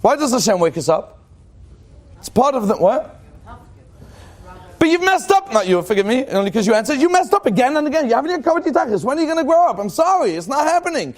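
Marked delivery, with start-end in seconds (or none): 4.8-11.1 mock scolding.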